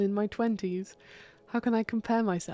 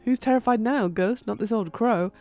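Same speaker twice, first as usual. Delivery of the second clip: taunting; 4 dB louder than usual. Acted. Witch taunts ghost.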